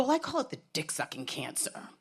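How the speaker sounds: secretive unvoiced whisper; telling the new doctor the crude name in a hush. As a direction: lean in and whisper it like a naughty secret. Confessing a crude nickname to doctor.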